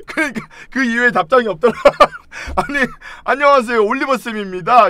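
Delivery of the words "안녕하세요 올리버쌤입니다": mock teacher greeting. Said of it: "이것도 아니고".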